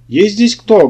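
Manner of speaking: loud, high-pitched barked question; barked call. A narrator's reading. Policeman calling into a dark shop, loud bark. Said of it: "гаркнул человек".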